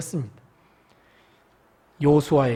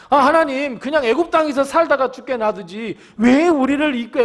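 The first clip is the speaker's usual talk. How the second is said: higher pitched, aggrieved whining plea; complaining Israelites; 5 semitones higher than usual. Acted. Israelites in the desert blaming God, a raised grievance cry. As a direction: complain bitterly to God as the wandering people. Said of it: "광야에서 하나님께 원망할 때마다 외쳤던 소리입니다".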